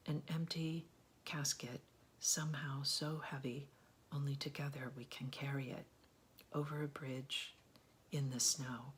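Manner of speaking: measured poetry recital with pauses at line breaks; steady, deliberate poem delivery; poem reading. Real, not acted. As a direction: read the poem aloud, letting each phrase settle. Reads a poem aloud.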